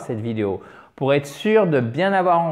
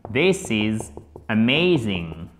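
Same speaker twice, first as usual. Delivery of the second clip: slow amazed demo; 5 semitones lower, slower than usual. Shown as a demonstration. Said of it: "les Américains emploient tout le temps ces mots".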